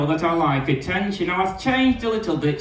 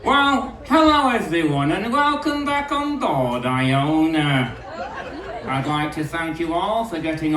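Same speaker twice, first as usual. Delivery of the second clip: captain's announcement voice. Acted. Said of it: "you have a very specific way of talking".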